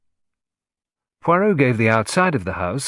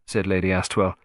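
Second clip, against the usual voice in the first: plain reading voice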